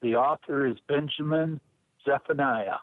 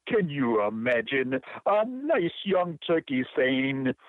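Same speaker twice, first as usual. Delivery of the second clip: put-on poem read in a light Jamaican accent. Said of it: "use my best Jamaican accent".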